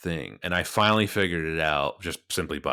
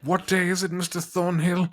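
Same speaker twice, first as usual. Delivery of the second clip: much higher, slow mid-Atlantic film-star voice; mid-Atlantic accent; 8 semitones higher than usual. Pretend. Host playing a suave film star in mid-Atlantic accent. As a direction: purr it like an old Hollywood mid-Atlantic gentleman. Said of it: "I absolutely love doing any mid-Atlantic accent".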